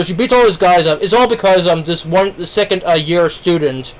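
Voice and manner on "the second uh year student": talking while chewing; mouth full. Real, not acted. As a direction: speak through a mouthful of food. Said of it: "shouldn't talk with my mouth full".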